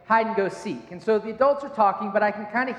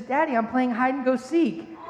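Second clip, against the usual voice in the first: put-on little girl; 4 semitones higher than usual. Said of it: "she says".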